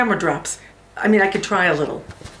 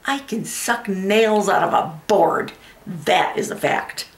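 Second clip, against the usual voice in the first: betrayed wife, defiant recovery. Acted. Wife boasts of what her husband will miss, defiant then composed. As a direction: pull yourself together and declare it defiantly. Performs monologue from the Women.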